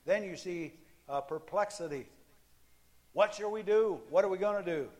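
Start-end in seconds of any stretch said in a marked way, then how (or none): 3.1-4.9 loud, high panicked question; panicked cry. Acted. Frightened servant asking what to do, loud panic.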